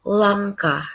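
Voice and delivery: langkah said as in Ngapak Javanese, open final a; Ngapak word. Shown as a demonstration. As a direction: say langkah the Banyumas way, broad a. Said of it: "people say".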